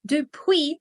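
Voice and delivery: "Depuis" said slowly and clearly as French dy-pwi; careful French depuis. Shown as a demonstration. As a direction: sound out "Depuis" as French, not Spanish después. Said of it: "atención aquí a la palabra depuis".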